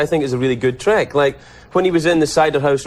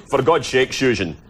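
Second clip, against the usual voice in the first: Sean Connery as Spanish guy. Retold or imitated. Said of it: "he'd have been good".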